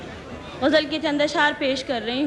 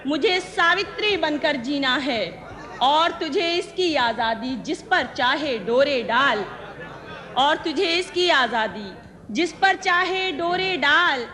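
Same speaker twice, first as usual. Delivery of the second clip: ghazal recitation; 2 semitones higher than usual. Acted. Poet presenting her ghazal to the gathering, measured recitation. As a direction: recite each line deliberately, pausing between phrases.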